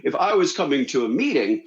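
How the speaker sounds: lightly voiced Santa with a ho-ho; a hint of jolly Santa, explaining himself. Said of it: "He goes".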